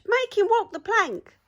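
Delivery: loud, high chanting yell; pirate yell. A narrator's reading. Pirates yelling at the troll, loud chant. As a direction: yell it like a bloodthirsty crew.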